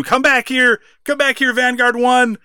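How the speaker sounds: high, loud retold yell after a fleeing drone; mock scream. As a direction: belt it out like a furious chase. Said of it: "he's like, scream".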